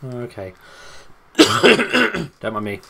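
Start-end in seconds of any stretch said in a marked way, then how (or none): 1.4-2.8 squeaky apology. Pretend. Cough then squeaky apology.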